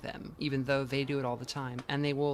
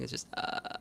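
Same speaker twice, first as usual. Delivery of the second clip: voiceless throat buzz demo; unvoiced fry, quieter; fry without voice; 4 semitones lower, 5 dB quieter than usual. Shown as a demonstration. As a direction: buzz it with no voice behind it. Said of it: "if you do it without vocalizing".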